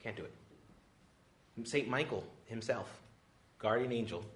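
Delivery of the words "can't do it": hushed slow aside. Real, not acted. Dropped to hush.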